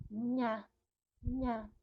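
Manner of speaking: nha, nha said twice, each on its own; syllable demo. Shown as a demonstration. Teacher drilling one sound for pupils, clearly. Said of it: "Essa sílaba".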